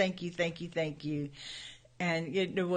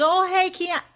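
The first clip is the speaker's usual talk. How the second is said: excited greeting; 13 semitones higher, 7 dB louder than usual. Retold or imitated. Greets daughter at door.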